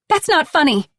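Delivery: panicked rebuke; alarmed. Acted. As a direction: cry out in fear. Mare alarmed at pointed gun.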